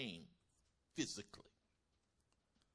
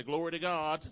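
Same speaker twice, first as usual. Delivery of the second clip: high, ringing call of praise; loud praise shout; 4 semitones higher, 10 dB louder than usual. Real, not acted. Preacher calls congregation to praise.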